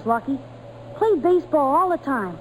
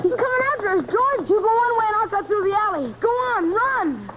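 higher, fast panicky urging; panicked; 6 semitones higher than usual. Acted. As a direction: scramble to get away. Kids fleeing angry apple seller.

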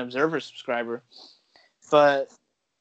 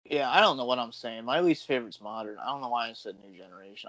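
tipsy, slightly slurred talk; a few drinks in; 3 semitones lower than usual. Real, not acted. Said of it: "I'm getting drunk".

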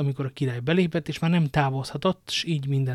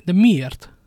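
pressing question; 5 semitones higher, 10 dB louder than usual. Acted. King presses the queen.

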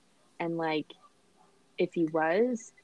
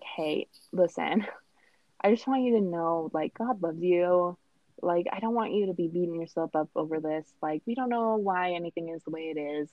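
kind bishop. Retold or imitated. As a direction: ease into it like a kind mentor. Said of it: "He was so kind about it".

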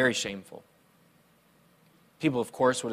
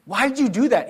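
put-on hurt child; 8 semitones higher, 4 dB louder than usual. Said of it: "I started crying".

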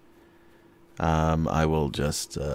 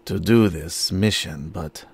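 sincere vow; slower than usual. Acted. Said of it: "I will just say, um, to the open air".

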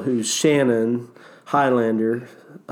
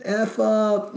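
high, mock-annoyed comeback; half-joking shut up at friends; playful retort; 9 semitones higher, slower than usual. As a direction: fire back at the teasing. Snapping back at mocking rafters.

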